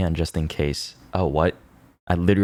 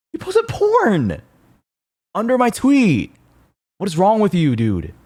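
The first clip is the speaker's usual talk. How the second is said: outraged shout; 12 semitones higher than usual. Real, not acted. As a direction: shriek the accusation in disbelief. Scolding the porn poster.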